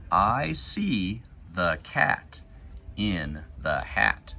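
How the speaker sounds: put-on slow, clear read-aloud for kids; deliberate storybook reading; reading to children. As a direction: read each word slowly as you point. Reading picture book to kids.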